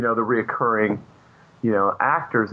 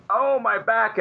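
mock groan; 11 semitones higher, slower than usual. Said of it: "so he's doing the".

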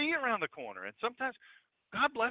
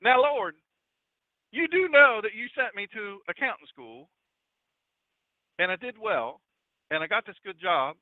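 playful mock-Southern protest to God; BJ imitation, Southern. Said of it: "if I say it like this".

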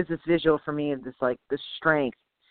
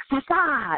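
higher, imitated stinging sound; scorpion sting noise; 7 semitones higher than usual. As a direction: jab out mock scorpion strikes. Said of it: "the scorpion's like".

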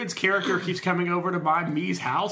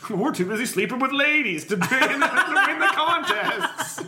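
frat bro; 6 semitones higher, 4 dB louder than usual. Acted. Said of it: "they're like".

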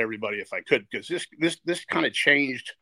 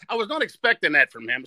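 laughing; 5 semitones higher, 5 dB louder than usual. Real, not acted. Laughing while recalling Bryant's words.

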